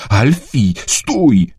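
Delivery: mild call to halt, rising in pitch on the command. A narrator's reading. Dad stopping Alfie jumping toward the tree, restrained call. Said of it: "zawołał tata".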